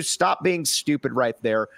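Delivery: hoarse, fading voice; voice giving out. Real, not acted. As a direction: rasp as the voice gives out. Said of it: "sorry, I'm losing my voice".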